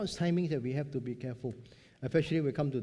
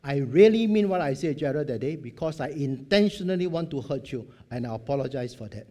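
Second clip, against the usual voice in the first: earnest confession; 7 dB louder than usual. Retold or imitated. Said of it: "come back and say".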